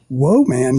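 whoa man split into two words; woman heard as whoa man. Retold or imitated. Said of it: "I'm like".

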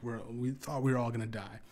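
normal talking voice

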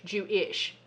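"Jewish" said as two pieces, Jew-ish; split word. Retold or imitated. Host echoing the co-host's joke, "Jewish" split into Jew-ish. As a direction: set the ish apart in "Jewish". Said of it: "He said he was Jewish".

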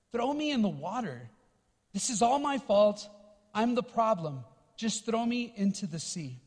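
quiet, hopeless surrender; defeated and resigned. Retold or imitated. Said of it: "And Jonah says".

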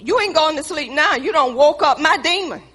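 hammed-up angry wife; mock fury. Wife refusing to let her husband sleep, loud mock fury.

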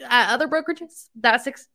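talking through hiccups; hiccuping between words. Real, not acted. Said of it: "I have the hiccups and they're killing me".

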